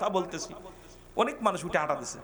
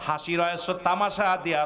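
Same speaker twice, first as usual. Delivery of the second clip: ordinary talk, nothing marked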